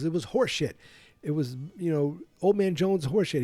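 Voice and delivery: high sneering bully voice; mock it as Biff. Quoting Biff.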